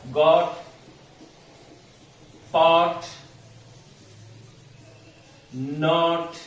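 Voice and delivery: गॉट, पॉट, नॉट with a short open o; short o drill. Shown as a demonstration. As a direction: clip each vowel short. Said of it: "pronounce करने की कोशिश करना". (गॉट, पॉट, नॉट छोटे ऑ के साथ)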